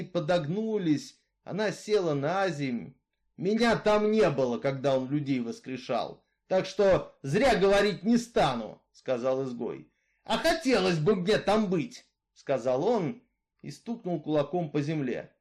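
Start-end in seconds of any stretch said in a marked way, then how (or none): 3.4-12.0 louder, steady outlaw's voice, arguing his case; Misfit, brooding killer. Acted. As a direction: tell her your grievance, hard and level. Misfit speaks. (голос Изгоя, громче и жёстче)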